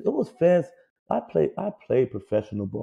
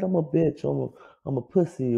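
higher, whiny mock player complaint; 3 semitones higher than usual. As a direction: imitate a crybaby athlete. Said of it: "they crying".

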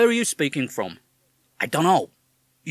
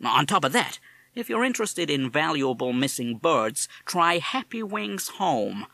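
put-on higher, louder parrot with a tough American accent; 5 semitones higher, 5 dB louder than usual. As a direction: talk like a fast-talking American wise guy. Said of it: "You have an American accent".

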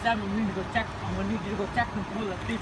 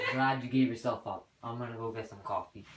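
laughing; 10 semitones lower, 6 dB quieter than usual. Acted. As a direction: chuckle while speaking. Laughs at confession.

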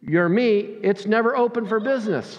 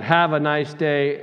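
curt dismissal; 4 semitones lower than usual. Retold or imitated. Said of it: "she said".

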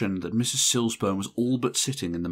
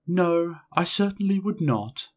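gentle answer; 10 semitones higher, 3 dB louder than usual. A narrator's reading. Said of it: "answer was gentleness itself".

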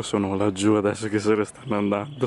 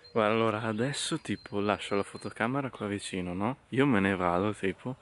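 hushed; 6 dB quieter than usual. Real, not acted. Sneaking near animals.

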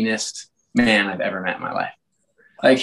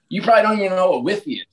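mock mentor sneer; 6 semitones higher, much faster than usual. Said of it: "he's like".

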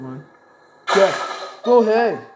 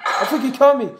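laughing; 2 semitones lower, faster than usual. Real, not acted. Caught by the baby in game.

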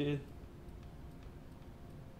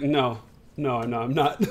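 low, numb retold denial; empty deadpan; 5 semitones lower than usual. Answering a friend's check after the win, empty deadpan. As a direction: imitate yourself drained, voice sitting low. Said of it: "I was so empty".

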